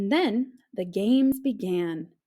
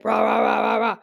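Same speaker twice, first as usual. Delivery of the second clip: snore imitation; 7 dB louder, faster than usual. Shown as a demonstration. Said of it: "funny snores".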